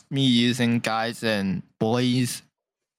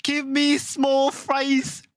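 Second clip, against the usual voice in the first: customer ordering voice; 11 semitones higher than usual. Retold or imitated. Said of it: "the average Hong Kong people can only order McDonald's".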